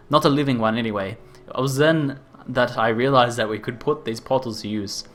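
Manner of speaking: hammed-up Australian inventor voice; over-exaggerated Australian. Inventor explaining rift gates in a hammed-up Australian accent. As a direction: play a zany Australian scientist. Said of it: "an over-exaggerated Australian ter-, stereotype voice".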